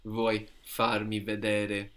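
Che cosa vuoi farmi vedere said slowly; a slow, clear teacher's repeat; slow teacher's model of the full question. Shown as a demonstration. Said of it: "Very good".

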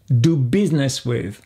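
"business" as two syllables, biz-ness; silent i in business. Shown as a demonstration. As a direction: repeat "business" cleanly, skip the i. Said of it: "on n'entend pas le I". (« business » en deux syllabes, biz-ness)

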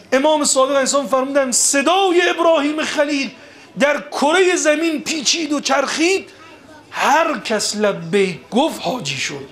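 high-pitched, ringing sermon delivery; impassioned preaching. Acted. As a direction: preach it with rising fervour.

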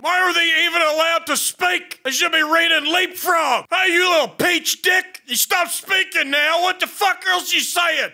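irate shouted tirade; angry ranting. Pretend. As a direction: rant angrily at the other players.

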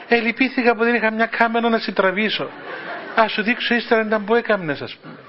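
teasing through laughter; laughing while teasing a friend on the phone. Real, not acted. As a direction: chuckle as you tease him.

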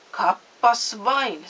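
slow, loud "well, well"; pleasantly astonished storybook villain; surprised exclamation. A narrator's reading. Puppet master's surprised greeting in story.

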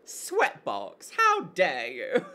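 slow, hammed-up indignation; mock outrage. Streamer reacts to word in chat, mock outrage. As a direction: savour each word, playfully appalled.

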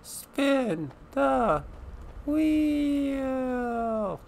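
game show host. Pretend. Game show style wheel prompt.

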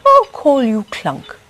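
name the robot with delight; Wendell speaking. A narrator's reading. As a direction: inventor cheerfully naming his robot. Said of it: "said Wendell".

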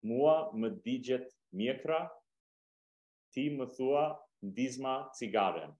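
slow, phrase by phrase with pauses; measured pace, gaps between phrases; slowly. Shown as a demonstration. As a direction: say it slowly for learners to catch. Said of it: "I'll say it slowly".

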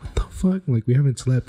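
mildly angry retold disbelief; mad grandpa. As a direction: imitate an outraged grandpa without raising the volume. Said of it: "he'd get all mad".

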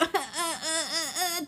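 mock straining machine moan in broken ahs; imitating a struggling washer; washing machine groan. The washer's strange noise, mimicked as a groan. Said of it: "なんか変な声出す時あるでしょ".

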